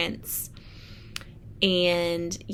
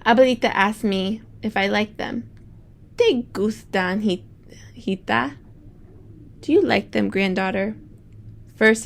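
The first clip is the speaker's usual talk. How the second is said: bright storybook read-aloud; reading to children. Acted. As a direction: read it like story time for the class. Teacher reads picture book aloud.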